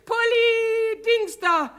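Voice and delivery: slow, drawn-out scoffing; mocking. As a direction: stretch it out, poking fun. Mocking a foreign word.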